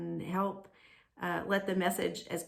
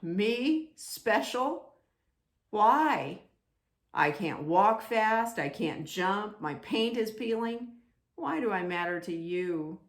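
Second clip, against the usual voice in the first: incredulous protest; 2 semitones higher, 4 dB louder, slower than usual. Acted. Doubting Wemmick protests.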